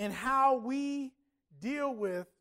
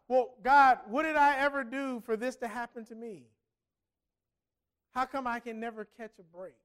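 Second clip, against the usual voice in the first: exasperated complaint to God; 4 dB louder than usual. Retold or imitated. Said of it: "You lose your job".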